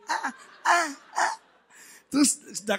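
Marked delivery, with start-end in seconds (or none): 0.1-1.3 short high teasing cries. Retold or imitated. Husband prods sulking wife, playful cries. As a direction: poke with little high "ah"s.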